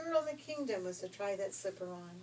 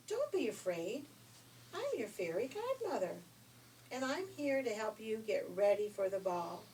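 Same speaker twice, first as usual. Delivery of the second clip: fairy godmother; 2 semitones higher, 4 dB louder than usual. Acted.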